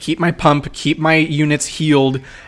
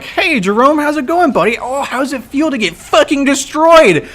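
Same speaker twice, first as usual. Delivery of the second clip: taunting; 10 semitones higher than usual. Retold or imitated. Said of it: "And I'm saying right here".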